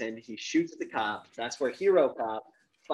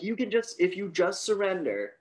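lightly voiced, higher coaxing cop; hint of a negotiating policeman, pitched up; imitated cop; 7 semitones higher, 3 dB louder than usual. Cop urges gunman to surrender, mildly put-on coaxing. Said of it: "the cop's like".

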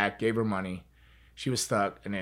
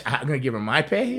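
incredulous; 6 semitones higher, 8 dB louder than usual. Retold or imitated. Retold disbelief at being asked.

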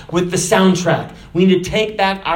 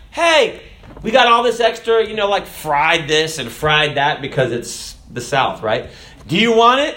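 excited offer; 3 dB louder than usual. Retold or imitated. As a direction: offer the extra food brightly. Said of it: "and they're like".

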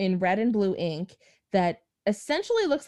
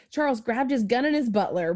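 laughing while reading; 4 semitones higher than usual. Real, not acted. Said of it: "what I have written here is".

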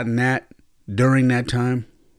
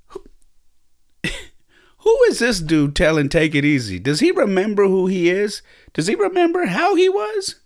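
higher, louder, disbelieving; can you believe this guy; incredulous inner voice; 9 semitones higher, 4 dB louder than usual. Retold or imitated. Son in his head reacting to his father, incredulous. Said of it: "in my head going".

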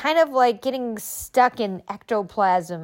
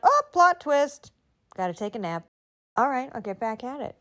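breezy reframe; 3 semitones higher than usual. Shown as a demonstration. Cheerful reframe.

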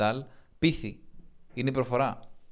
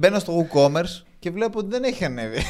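laughing; 6 semitones higher, 5 dB louder than usual. Real, not acted. Teasing co-host laughing mid-line.

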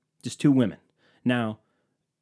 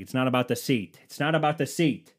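insistent, rising on the repeat; mild retold yell; 3 semitones higher, 4 dB louder than usual. Man snapping at partner over the car seat, mild mock yell. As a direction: retell a frustrated raised voice, pushing harder each time. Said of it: "You don't have to yell at me".

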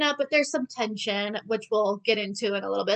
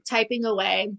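ordinary talk

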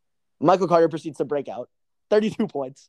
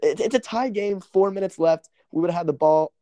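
agitated; 4 semitones higher, 5 dB louder than usual. Real, not acted. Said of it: "let me collect myself".

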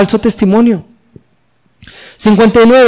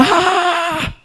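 grito agudo imitado, contenido; mock scream; 10 semitones higher, 8 dB quieter than usual. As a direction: imita el grito de los líderes. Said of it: "se tapaban los oídos y gritaban". (grito agudo imitado sin volumen)

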